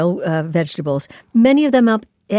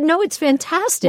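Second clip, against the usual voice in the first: enthusiastic; 8 semitones higher, slower than usual. Retold or imitated. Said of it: "And everyone said".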